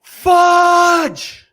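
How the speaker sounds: high, loud exasperated yelp; frustrated yell at yourself; sudden angry outburst. Retold or imitated. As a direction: blurt it out at a fluffed take. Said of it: "And I'm like".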